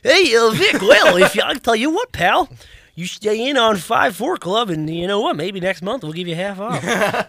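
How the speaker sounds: upbeat pushy salesman. Retold or imitated. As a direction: sell it like a cheesy rep. Imitating customer service rep.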